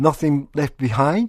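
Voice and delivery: behind lifted a little at the end. Teaching the phrase Nothing left behind, slight rise on behind. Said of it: "語尾を少し上げて言うと".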